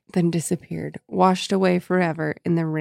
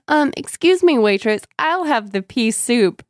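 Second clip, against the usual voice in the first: prim joking voice; 5 semitones higher than usual. Retold or imitated.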